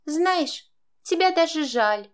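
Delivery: high, smug fake pity. A narrator's reading. Stepdaughter pities stepmother with smug smile. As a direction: say it with a satisfied smile. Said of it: "с довольной улыбкой заключила".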